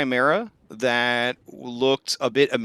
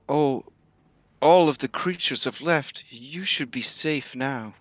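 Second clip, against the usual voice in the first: talking tree; 4 semitones higher than usual. Acted. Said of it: "the tree says".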